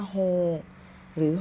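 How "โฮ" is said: โฮ said as a bare ho with no final consonant; wrong pronunciation. Shown as a demonstration. Teacher showing viewers the wrong way to say โฮ. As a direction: drop the ending, just โฮ. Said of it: "เราจะไม่ออกเสียงว่าโฮ".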